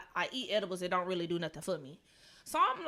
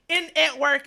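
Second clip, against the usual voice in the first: high, loud, helpless laughter; can't get the words out for laughing; laughing hard; 7 semitones higher, 9 dB louder than usual. Real, not acted. Telling the co-host about work, cracking up loudly. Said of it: "crying, laughing, loud as fuck".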